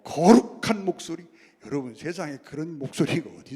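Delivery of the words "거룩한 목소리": mock holy voice. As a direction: put on a touch of sanctimony. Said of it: "이상한 목소리가 나와요". (거룩한 척 살짝 흉내 내는 목소리)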